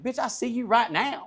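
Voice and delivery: high, hammed-up fighting words; retold challenge. Driver squaring up to the man, retold challenge. Retold threat in roadside argument.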